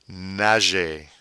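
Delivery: "nager" ending in an ay sound; slow French "nager" with no R. Shown as a demonstration. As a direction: say "nager" as nah-zhay. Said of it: "Notice the E R sound is".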